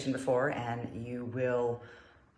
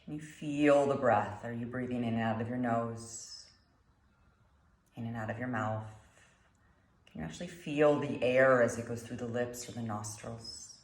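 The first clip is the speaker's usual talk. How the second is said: calm meditation guide, long pauses between phrases; guided meditation; 3 semitones lower, 5 dB quieter than usual. Acted. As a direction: guide them gently through the breath, unhurried.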